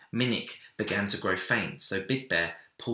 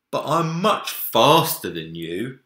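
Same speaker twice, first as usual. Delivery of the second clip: playful bear; 4 semitones higher, 10 dB louder than usual. A narrator's reading. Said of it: "he said".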